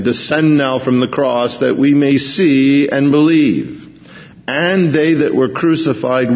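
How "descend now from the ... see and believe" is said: mocking. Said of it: "mocking again".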